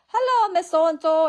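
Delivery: high, loud, slow fake-polite greeting; mock scam caller. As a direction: drag out the scammer's sugary hello. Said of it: "they're like".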